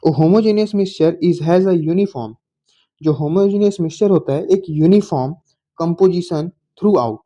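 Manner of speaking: slow definition read in English with Hindi glosses; slow dictation. Shown as a demonstration. Teacher reading out the definition slowly for the class. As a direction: spell out each word for note-taking.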